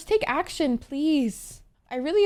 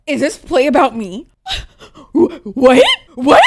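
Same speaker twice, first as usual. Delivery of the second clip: overwhelmed near tears; 9 dB louder than usual. Real, not acted.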